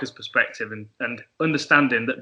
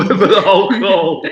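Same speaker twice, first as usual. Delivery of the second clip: laughing; 5 semitones higher, 6 dB louder than usual. Real, not acted. Laughing at friend's fake accent story.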